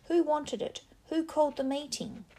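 high, loud furious yells; angry shouting. Acted. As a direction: hurl the questions at Jack. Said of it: "shouted Ralph".

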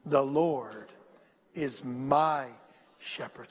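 low, measured phrases with long pauses; slow recitation. Shown as a demonstration. Preacher leading the church to repeat the verse, slow recitation. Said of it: "say that slow".

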